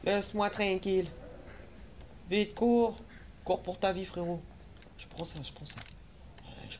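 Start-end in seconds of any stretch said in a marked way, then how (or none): 0.0-4.4 panicking gamer. Real, not acted. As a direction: yell in full panic. Monster chasing, panicking.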